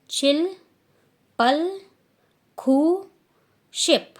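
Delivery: repeat-after-me drill; call-and-repeat counting. Shown as a demonstration. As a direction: lead the class through the count. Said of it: "आप लोग भी कोशिश करो अब बोलने की".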